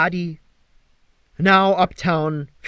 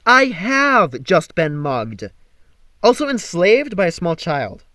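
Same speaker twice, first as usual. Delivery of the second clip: indignant; 3 semitones higher, 5 dB louder than usual. Acted. Apollo indignant reply.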